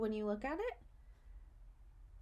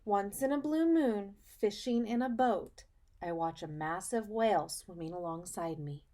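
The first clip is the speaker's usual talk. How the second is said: put-on reading to children. Teacher reading a picture book to her students, storybook voice. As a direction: read it like storytime for little kids.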